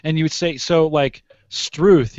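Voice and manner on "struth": "struth" pitched up as an exclamation. Shown as a demonstration. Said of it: "you would say with an exclamation".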